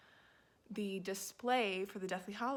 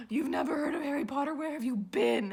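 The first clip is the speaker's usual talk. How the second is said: much louder, fast, almost crying out in shock; outraged disbelief; 5 semitones higher, 8 dB louder than usual. Retold or imitated. Friend shocked that I'd never heard of Harry Potter, loud disbelief. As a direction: hurl it at a friend who's clueless. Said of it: "And she was like".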